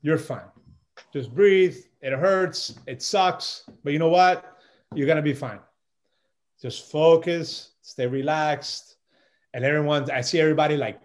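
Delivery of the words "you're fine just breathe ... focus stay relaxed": calming self-talk. Retold or imitated. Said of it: "in my mind, I'm like".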